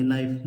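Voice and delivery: नाइफ said with no K sound; silent K. Shown as a demonstration. Teacher shows children the silent letter, नाइफ without its K. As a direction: start नाइफ straight on the N. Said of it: "इसमें बच्चों के silent है".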